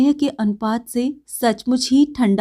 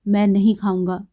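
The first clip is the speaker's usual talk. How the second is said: calm refusal; 2 semitones lower than usual. Acted. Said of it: "शांत भाव से बोला".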